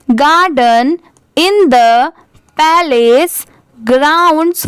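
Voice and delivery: very slow, word-by-word reading aloud; careful model reading. Shown as a demonstration. Teacher reading the paragraph for learners, slow and deliberate. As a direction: read slowly with a gap after each word. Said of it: "ध्यान से सुनिए कि कौन से word को मैं क्या pronounce".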